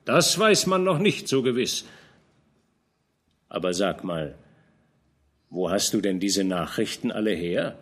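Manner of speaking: old general scolding a young knight, lightly voiced; lightly voiced old commander. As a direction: admonish the young man gently but firmly. Fronsberg questions Georg.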